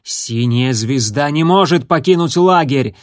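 a growling outburst, loud and forceful; growled. Acted. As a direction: snarl it as a furious warning. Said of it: "прорычал он".

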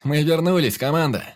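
loud, high cry to the crew; triumphant captain's shout; rousing toast. A narrator's reading. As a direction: proclaim the homecoming proudly.

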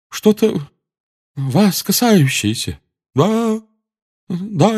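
high, slow, eerie prophetic seer; otherworldly voice. A narrator's reading. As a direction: mystic voice trembling with anger. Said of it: "потусторонним голосом, ... голос дрожал от гнева".

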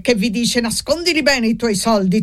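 mock the miser's creed; lightly sarcastic priest; sarcastic rebuke.

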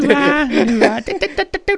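high, laughing radio DJ voice. Pretend. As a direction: croon it like a cheesy radio host. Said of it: "That's my radio voice".

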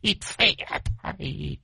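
high, soft secretive murmur; a demon breathing words in the ear; hushed high eerie voice; ghostly whisper. Acted. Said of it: "thò mõm thì thầm".

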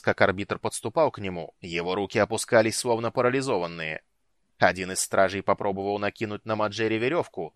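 cold, commanding dark lord voice; menacing lord. Acted. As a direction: speak as a ruthless ruler. Night lord character voice.

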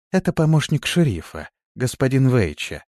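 ordinary delivery, nothing marked

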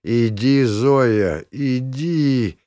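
mildly hammed-up groan; patient dismissing Zoya with a staged groan; theatrical moaning. A narrator's reading. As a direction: moan it like a showy invalid. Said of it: "картинно застонав".

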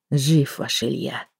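slow, soft grumbled mutter; mumbling. A narrator's reading. Investigator grudgingly telling the woman her lover lives, muttered. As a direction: mutter it reluctantly under your breath. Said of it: "пробормотал Вишняков".

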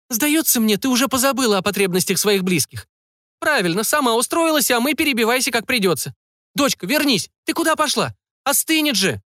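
high, nagging, reproachful mother; nasty mother's voice. A narrator's reading. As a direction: scold the daughter in a shrill nagging tone. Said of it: "мерзкий голос". (мерзкий голос матери, высокий и ворчливый)

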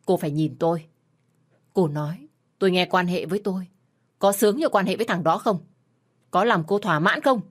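a commanding, icy demand rising to anger; a husband coldly interrogating his wife, forceful. Acted. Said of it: "ngữ khí mạnh mẽ và lạnh lẽo".

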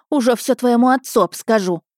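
cross auntie's warning; scolding woman. A narrator's reading. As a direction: tell the lad off indignantly. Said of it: "отчитывала она парня".

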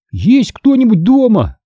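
put-on boy calling into empty house after running; calling out breathless. A narrator's reading. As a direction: call out while catching breath. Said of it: "крикнул я, с трудом переводя дыхание".

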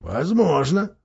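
cold. Acted. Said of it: "холодно отвечал Никобрик".

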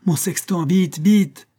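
high, loud, hurried command; urgent order. A narrator's reading. Astronomer sending for his sextant, loud urgent call.

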